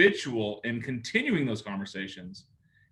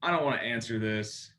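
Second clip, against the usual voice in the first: annoyed groan; 3 semitones lower than usual. Retold or imitated. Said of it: "or you're like".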